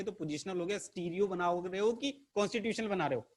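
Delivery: a touch of mock exasperation, pitched a little up; scolding student. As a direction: playfully tell the teacher off as the student. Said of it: "डांटो मत यार". (हल्की-सी नकली डांट)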